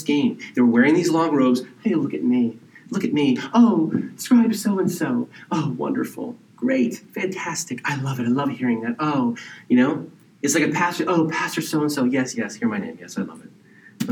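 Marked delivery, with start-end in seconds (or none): 1.8-9.4 vain scribe. Retold or imitated. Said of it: "I'm being a little extreme in it". 11.1-14.1 vain pastor. Retold or imitated. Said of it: "I'm being a little extreme in it".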